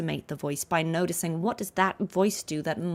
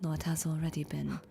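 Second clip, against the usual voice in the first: quiet imitation of a deep, gentle voice; Hiyuki; 3 semitones lower, 8 dB quieter than usual. Shown as a demonstration. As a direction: echo the line softly and gently. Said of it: "She's got a very deep sort of".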